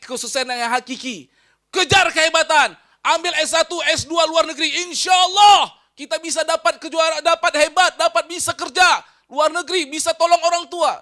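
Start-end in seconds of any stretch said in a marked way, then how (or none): 1.7-11.0 higher-pitched, driven mock pep talk; rousing ambition pitch. Preacher mimics those chasing degrees abroad, rousing ambition pitch. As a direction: urge them on like a mock motivator. Voices the worldly ambition being pushed.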